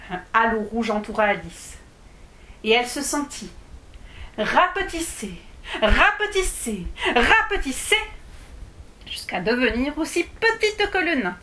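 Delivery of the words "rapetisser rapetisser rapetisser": rising repetition. A narrator's reading. Alice shrinking, word repeated rising.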